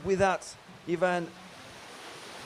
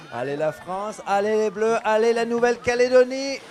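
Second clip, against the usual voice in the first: excited cheer; 4 semitones higher, 5 dB louder, faster than usual. Acted. Cheering for France after accent joke.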